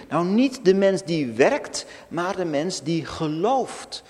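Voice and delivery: loud, driving pulpit voice; full-force sermon quotation; forceful preaching. Acted. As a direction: proclaim it to the whole church. Preacher quotes Romans with force.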